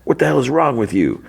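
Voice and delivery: high, retold outburst without shouting; appalled scolding. Brother berates Simon after outburst.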